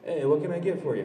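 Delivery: mock bartender taking an order; bartender role. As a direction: offer a drink with a hint of bartender patter. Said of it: "my idea of a bartender".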